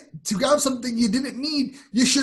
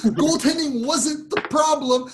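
exasperated argument; 6 semitones higher than usual. Real, not acted. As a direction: hammer each point home in exasperation. Heated argument over a goalie trade.

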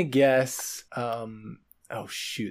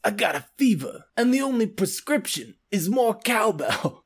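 Walken impression; 3 semitones higher than usual. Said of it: "best Christopher Walken impression".

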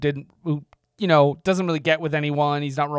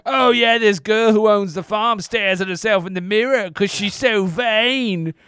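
gossiping carriage men; 4 semitones higher, 5 dB louder, slower than usual. Retold or imitated.

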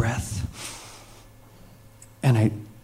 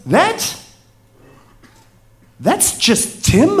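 much higher, slow hammed-up pirate drawl; pirate captain voice; 12 semitones higher, slower than usual. Captain pointing at the shark, teasing the scared tourist in a hammed-up pirate voice. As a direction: stretch it out like a knowing old sea dog. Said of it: "so you're gonna get pirate".

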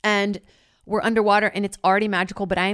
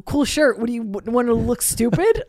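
loud, higher mock taunt aimed at the ex; blatant teasing; 4 semitones higher, 5 dB louder than usual. Island guy mocking the ex's shirt, loud teasing jeer. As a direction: jeer at him, openly rude. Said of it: "He's like".

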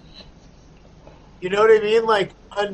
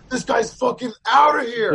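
higher-pitched mock shout; acted ejection shout; 4 semitones higher, 3 dB louder than usual. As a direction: call it out like throwing someone out. Voicing himself ejecting a troublemaker.

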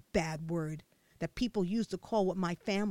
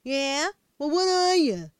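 loud, high challenging shout; demanding bully; 6 semitones higher, 10 dB louder, slower than usual. A narrator's reading. Fat boy challenging the little girl, loud demanding shout. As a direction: challenge her, loud and rude.

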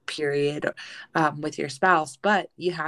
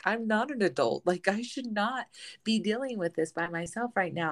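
higher-pitched, lightly acted helpless objection; overwhelmed protest, pitched up; mock protest; 4 semitones higher than usual. Young spouse on the inside after being told to cope, mock protest.

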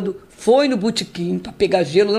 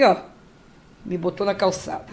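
ordinary delivery

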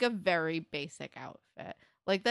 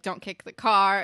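helium voice; 10 dB louder than usual. Retold or imitated. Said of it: "she's like".

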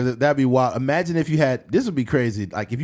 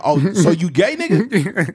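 louder, higher teasing retort; mock soldier retort; 5 semitones higher, 5 dB louder, slower than usual. Black soldier teasing the German, louder mock retort. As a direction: fire back at him mockingly.

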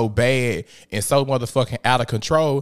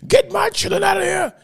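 retold shout. Father in handcuffs yells at officers to take the kids, mock shout. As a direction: push it up into a full mock yell.

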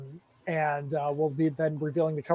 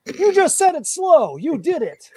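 high teasing voice; 10 semitones higher, 7 dB louder, slower than usual. Real, not acted.

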